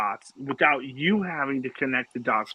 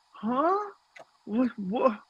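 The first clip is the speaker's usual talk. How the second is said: much higher, startled double take; wife's shock; 10 semitones higher, 4 dB quieter, slower than usual. Retold or imitated. Imitating his wife hearing the rum joke, high and startled. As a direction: mimic a baffled wife catching on. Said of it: "my wife is like".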